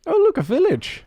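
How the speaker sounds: high, delighted exclamation; excited. Real, not acted. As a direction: burst out at the sight. Spots village suddenly.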